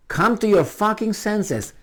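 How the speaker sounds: high, slow, drawn-out rebuke; forceful scolding. Shown as a demonstration. Showing how to deal with them, forceful scolding. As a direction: scold hard, stretching each word. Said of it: "That's how you should do".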